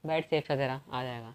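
low, soft reassurance; calm, hushed comfort; reassuring. Real, not acted. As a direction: soothe them quietly, voice dropping. Reassures the upset younger player.

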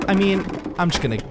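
low soft backing away; quietly sneaking off; soft low I'm just gonna go; hushed retreat. Real, not acted.

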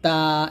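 "তা" with tongue tip at the base of the upper front teeth; tongue-tip dental T. Shown as a demonstration. Teacher showing where Arabic ta is made, dental "তা". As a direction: demonstrate a dental t in "তা". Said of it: "জিহ্বার আগা সামনের উপরে দাঁতের".

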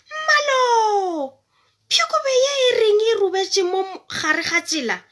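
high, loud furious cry; angry shout. Acted. Man on the cart yells angrily at the fox. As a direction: shout out in anger at the animal. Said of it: "Monna a kgotsa".

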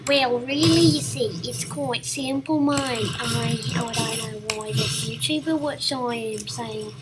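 mock tutorial YouTuber in a vague Australian accent; put-on accent. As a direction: explain it as a badly faked Australian tutorial host. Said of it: "this kind of accent, or whatever this accent".

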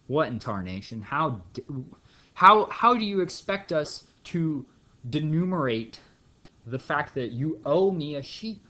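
mock outraged old-timer. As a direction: splutter like a cranky old cowpoke. Cow owner outraged at credit.

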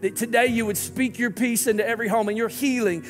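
earnest, steady prayer voice with rising pleas; pastor's closing prayer. Acted. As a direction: lift the congregation up to God in prayer.

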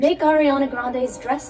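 loud, slow sarcastic quote; mock quote. Mocking those who suggested the project, drawn-out sarcasm. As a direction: mimic the people who talked you into it. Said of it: "they said".

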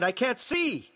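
high-pitched cry of horror; high wail of sudden alarm; panicked cry. A narrator's reading. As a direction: cry out in a changed, stricken voice. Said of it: "someone cried".

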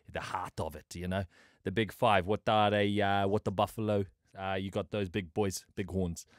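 laid-back South African bloke; South African accent, chatty and easygoing. Pretend. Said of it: "Do the South African accent".

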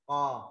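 "Co" thick and loud from the throat. Shown as a demonstration. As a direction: hit "Co" heavy and loud. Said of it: "các bạn đọc dày nha". ("Co" đọc dày, to)

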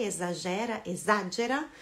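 exagera stressed on the GE syllable; stress shift shown. Shown as a demonstration. Teacher contrasts the stress of exagera in Portuguese and Italian. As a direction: say exagera with the stress on GE, then compare. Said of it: "muda só a sílaba tônica aí".

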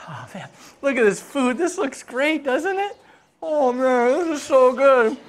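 high-pitched, eager enthusiasm; delighted host. Acted. King delights in the food.

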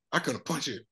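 inner tempter voice. Retold or imitated. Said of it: "this voice say".

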